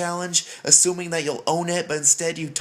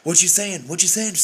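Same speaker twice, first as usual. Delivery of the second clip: teasing parent. Retold or imitated. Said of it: "start doing things like".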